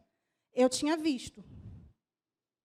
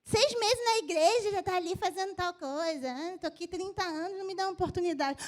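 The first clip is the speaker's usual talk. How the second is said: whiny complainer. Retold or imitated. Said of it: "Às vezes você reclama".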